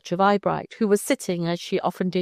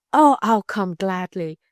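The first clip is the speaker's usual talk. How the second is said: a touch louder, gladly accepting; glad cry; 3 dB louder than usual. A narrator's reading. Girl accepting her guardian's offer with a glad cry. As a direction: let the gladness break through. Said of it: "cried Eyebright".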